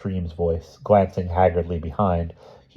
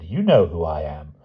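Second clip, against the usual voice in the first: menacing villain voice. Acted. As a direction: sneer it like a gloating enemy. Harbin taunts Wilby.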